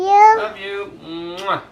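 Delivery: high loud love and kisses. Real, not acted. Parent echoing toddler with kisses.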